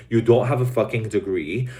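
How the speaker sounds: usual speaking voice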